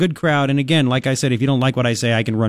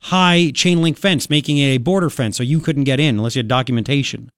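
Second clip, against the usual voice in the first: brisk talk-radio delivery; radio host read. Acted. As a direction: read the segment for listeners on air.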